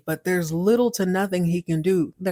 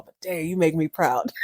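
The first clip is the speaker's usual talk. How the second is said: laughing praise; 4 semitones lower than usual. Retold or imitated. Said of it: "she's like".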